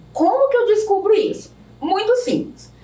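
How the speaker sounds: usual speaking voice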